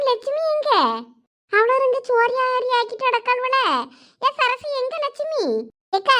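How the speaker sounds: voix de vieille voisine, plus aiguë, curieuse; vieille villageoise curieuse. Acted. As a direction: une commère du village qui pose des questions. Voices village elder woman.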